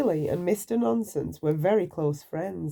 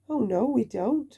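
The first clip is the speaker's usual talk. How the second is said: agreeing; 6 semitones higher than usual. Acted. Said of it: "agreed Mister Nonsense".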